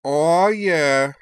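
high, loud, squeaky dragon cheer; little dragon voice. Acted. Little dragon Noll to the newcomer, high squeaky whoop. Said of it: "said Noll".

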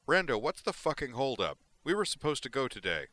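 loud, high furious yelling; angry shout. Acted. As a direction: bellow it in a rage. Brejik storming in, angry.

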